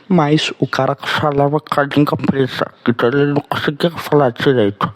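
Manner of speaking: slushy lisp, s turned to th. Retold or imitated. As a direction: imitate a friend's heavy lisp. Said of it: "Ele falava exatamente assim".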